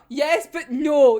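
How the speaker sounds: slow, drawn-out "yes but no". Real, not acted. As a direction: stretch out "yes but no" reluctantly. Torn reaction to manga reveal.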